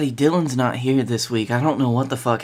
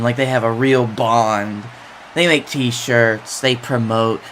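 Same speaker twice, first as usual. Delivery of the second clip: a hint of a heel promo, deliberate and taunting; lightly voiced wrestler trash talk; wrestling promo; slower than usual. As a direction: cut a promo on your rivals. Wrestler cuts promo on rivals.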